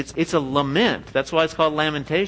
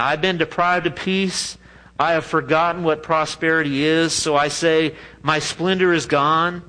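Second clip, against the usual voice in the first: scripture reading. Acted. Reading scripture aloud slowly.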